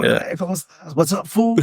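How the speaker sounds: high, exaggerated Latino comic accent; hammed-up Latino accent, pitched well up; put-on Latino accent. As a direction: play the old stage character's Latino accent. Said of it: "Like, I had the accent".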